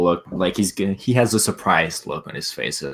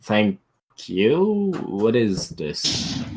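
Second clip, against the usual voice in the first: nervous stutter; much slower than usual. Acted. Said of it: "stutter a bit".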